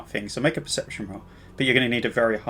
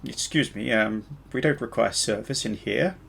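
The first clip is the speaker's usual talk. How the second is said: fake French accent; 4 dB quieter than usual. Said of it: "He says with an obviously fake French accent".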